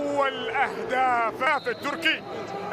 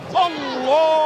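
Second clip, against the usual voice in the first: loud rising exclamation; excited shout; 6 dB louder, slower than usual. Real, not acted. Commentator shouts at chance.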